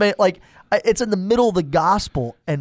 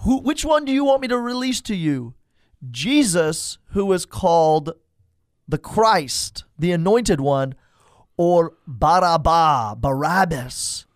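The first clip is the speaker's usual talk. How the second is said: 1 Pilate voiced. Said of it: "And he says".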